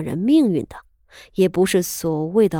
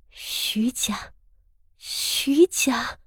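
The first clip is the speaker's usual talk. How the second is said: whispered through clenched teeth; through gritted teeth; 4 semitones higher, 5 dB quieter, much slower than usual. A narrator's reading. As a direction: seethe it in a hiss. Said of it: "她咬牙切齿道". (咬牙切齿地低声说)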